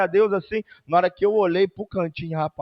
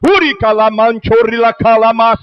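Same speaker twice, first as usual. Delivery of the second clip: speaking in tongues; 4 semitones higher, 10 dB louder than usual. Acted. Speaking in tongues mid-sermon.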